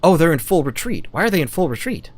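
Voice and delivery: high, loud astonished burst; thrilled disbelief, voice jumping up; surprised excitement. Real, not acted. Enemy suddenly in full retreat.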